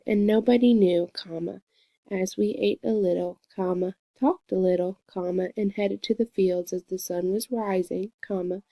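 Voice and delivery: reads the quote aloud and speaks each comma as the word "comma". Shown as a demonstration. Student reading a passage for peer review, saying each "comma" aloud. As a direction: spell out the punctuation by saying "comma" at every break. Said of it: "Johnson uses a lot of punctuation".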